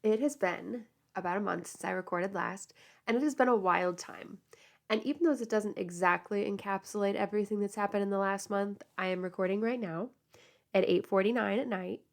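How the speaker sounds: whitening strips in, a little funny; talking around teeth strips; with whitening tray. Real, not acted. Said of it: "with my little Crest whitening strips in".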